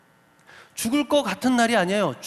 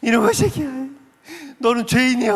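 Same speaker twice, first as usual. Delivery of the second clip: raised, higher-pitched mock wail; imitated tearful scolding; 4 semitones higher, 3 dB louder than usual. Mother hits and scolds her child in church, imitated tearful scolding. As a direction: act out a mother scolding through tears. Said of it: "그러면서 막 울어요".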